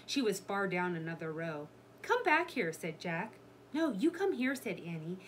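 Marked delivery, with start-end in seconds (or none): 2.0-2.7 high, loud order; calling her back. A narrator's reading. Jack calls Annie back. 3.7-4.6 high, loud retort; calling back. A narrator's reading. Annie calls back to Jack.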